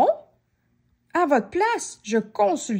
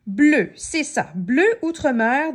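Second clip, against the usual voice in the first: firm verdict; 3 semitones higher, 5 dB louder than usual. Acted. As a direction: announce the colour like a diagnosis. Painter's verdict.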